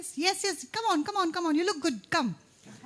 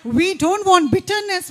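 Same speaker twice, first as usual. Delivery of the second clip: surprised; 6 semitones higher, 9 dB louder than usual. Real, not acted. Host reacts to a wrong line.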